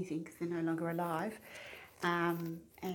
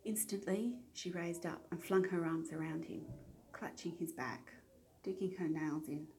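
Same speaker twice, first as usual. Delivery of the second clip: reading a novel aloud. Acted. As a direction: read the steamy scene like an audiobook, dropping to a hush. Reads a random book passage.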